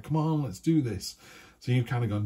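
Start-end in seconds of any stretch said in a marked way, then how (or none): 0.0-1.2 vigorous. Retold or imitated. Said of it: "a bit more vigorous".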